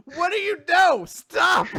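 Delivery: high, loud mock-panicked yell; frantic protest. Recapper acts the boy protesting the massage, frantic shout. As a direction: yell for it to stop, hammed-up.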